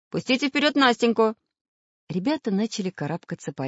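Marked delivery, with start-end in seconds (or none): 0.1-1.3 raised-pitch order; commanding. A narrator's reading. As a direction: direct the group urgently. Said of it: "командовал Самоделкин".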